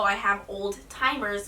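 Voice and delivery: put-on old timers in place of Alzheimer's; Alzheimer's mangled into old timers; mom's mispronunciation. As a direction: imitate mom saying old timers as two words. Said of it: "she'll pronounce words wrong".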